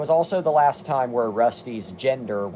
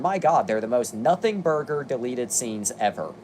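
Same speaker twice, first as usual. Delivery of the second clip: exasperated; 2 semitones higher than usual. Real, not acted. Exasperated aside.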